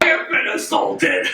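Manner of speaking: high unvoiced whisper, mock indignant; mock whispered outrage. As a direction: play the dramatically wronged friend. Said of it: "Nick's like".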